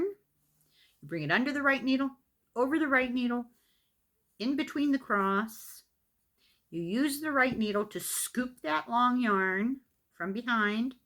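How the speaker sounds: deliberate step-by-step teaching, phrase by phrase; measured, clearly separated instructions; slow instruction. Shown as a demonstration. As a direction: spell out each step with pauses between. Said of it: "I'll say it slowly and do it again".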